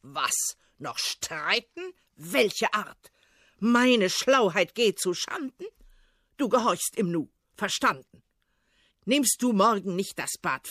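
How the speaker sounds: lightly voiced tsar in mock rage; furious tsar. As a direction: bark threats at the servant. Tsar threatens Ivan.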